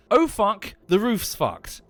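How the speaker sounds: dismayed homeowner cursing under the rain; shocked inner curse. Retold or imitated. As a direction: blurt it like you just saw the damage. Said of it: "and I thought".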